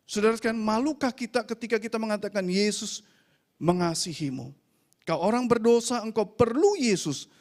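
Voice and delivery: emphatic pulpit delivery; preaching exhortation. Acted. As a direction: press the appeal on the congregation.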